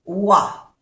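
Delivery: Wa said as a clean wa; French oi sound. Shown as a demonstration. Teacher showing the oi sound of voiture. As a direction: stress the wa of the French oi. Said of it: "O I es wa".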